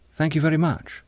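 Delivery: understated politeness; polite. A narrator's reading. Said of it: "said John politely".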